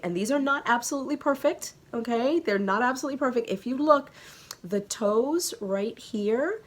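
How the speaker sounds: fast, high and excited. Real, not acted. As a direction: rush it out eagerly.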